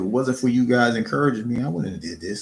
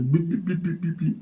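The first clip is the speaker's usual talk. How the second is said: imitating blips; 7 semitones higher than usual. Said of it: "I'm stuttering and things like that".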